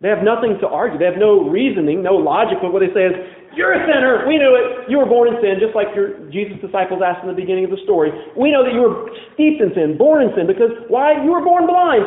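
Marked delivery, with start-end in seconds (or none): 3.5-12.1 accusing outburst. Acted. Pharisees angrily accusing the man.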